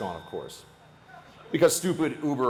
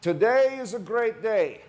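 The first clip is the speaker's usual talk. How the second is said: put-on higher, slow Slavic accent, proud and delighted; 9 semitones higher, slower than usual. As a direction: beam it out in a Slavic accent, slowly. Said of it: "He's got kind of a Slavic accent".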